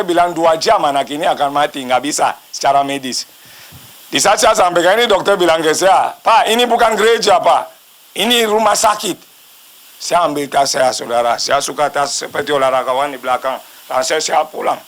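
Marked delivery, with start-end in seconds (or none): 6.2-9.3 mild mock protest, pitched up; higher-pitched, lightly acted objection; retold rebuke. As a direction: imitate an exasperated doctor correcting someone. Doctor rebukes him in retold scene.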